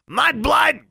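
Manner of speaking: piercing, very high creature screech; shrill, squawked slur; screeched insult. A narrator's reading. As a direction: screech it like an abusive bird. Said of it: "screeched Honey".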